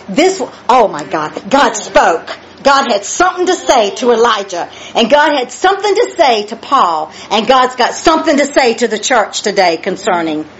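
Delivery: rhythmic, emphatic preaching build; fired-up preaching. Real, not acted. Preacher exclaiming to the church that God spoke, fired-up preaching. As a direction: build with each repeated phrase.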